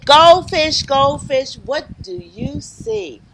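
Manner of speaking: rhythmic picture-book refrain; reading to children. Acted. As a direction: chant it invitingly for little listeners.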